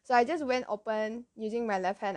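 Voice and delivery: normal talking voice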